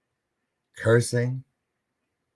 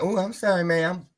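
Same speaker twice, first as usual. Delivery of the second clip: meek apology; 9 semitones higher than usual. Retold or imitated. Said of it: "And I'm like".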